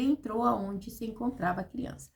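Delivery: ordinary talk, nothing marked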